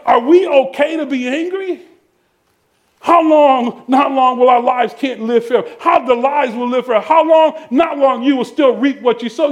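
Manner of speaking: driving, rhythmic sermon delivery; forceful preaching. Real, not acted. Preacher warning the congregation about sowing anger, fervent. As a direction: preach it hard, punching the openings.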